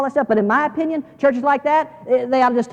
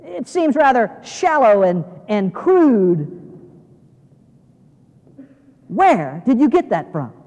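haughty museum visitor, lightly acted; mildly snooty, measured complaint; condescending; slower than usual. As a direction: look down your nose at him, drawing out the criticism. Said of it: "rather condescendingly, she says".

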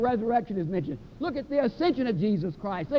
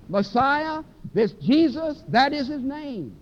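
louder, slow, building proclamation; climactic preaching; 5 dB louder, slower than usual. Acted. Peter declaring Jesus Lord to Israel, loud and slow. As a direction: drive each title home.

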